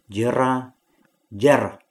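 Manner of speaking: first Jera as jra, second as jhra with added breath; two syllables contrasted. Shown as a demonstration. Teacher reads both together: Jera as jra, then jhra. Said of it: "两个字一起念".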